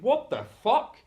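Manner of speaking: high, loud indignant exclamation; retold outraged outburst. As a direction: burst out in acted disbelief. Acted outrage at partner.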